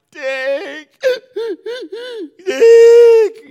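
wailing the dog's name, loud and high; little son crying out for his lost dog; crying yell. Retold or imitated. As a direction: sob and shout like a little boy who lost his dog. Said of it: "But he's crying".

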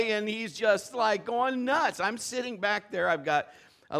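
ordinary talk, nothing marked

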